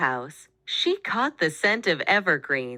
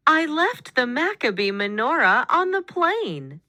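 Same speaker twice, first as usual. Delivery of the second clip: higher, upset outburst, a touch of alarm; crying out upset; 8 semitones higher than usual. Acted. Girl tells her parents she left the menorah, upset cry. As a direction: blurt it out in mild dismay. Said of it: "she cried".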